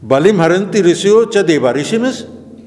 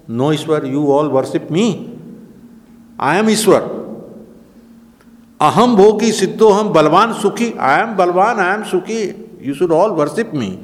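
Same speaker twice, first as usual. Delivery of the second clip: boastful demon king; 4 semitones higher than usual. Retold or imitated. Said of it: "Hiranyakasipu also used to say".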